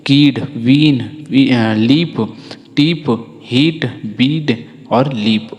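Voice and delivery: कीड, वीन, लीप spaced out with an ee vowel; i sound demo. Shown as a demonstration. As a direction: model कीड, वीन, लीप one at a time, clearly. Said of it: "इस प्रकार से ई का उच्चारण होता है".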